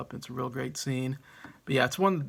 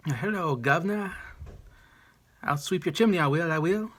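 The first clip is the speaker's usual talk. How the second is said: Dick Van Dyke Cockney; 5 semitones higher than usual. Retold or imitated. Fan doing Dick Van Dyke's Mary Poppins sweep in an over-the-top Cockney accent. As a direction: ham up a cheery Cockney chimney sweep accent. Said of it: "love his over-the-top Cockney accent".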